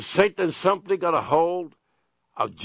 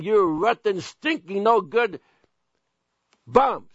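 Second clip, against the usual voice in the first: builds a hammed-up rant toward bums; mock insults, building; 4 semitones higher than usual. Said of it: "hurling insults at them daily".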